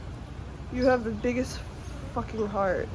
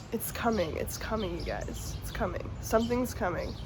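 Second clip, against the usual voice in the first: softer and softer, almost breathed; hushed promise; 7 dB quieter than usual. Real, not acted. Tarot reader telling viewers help is coming, hushed. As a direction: let it fade to a hush.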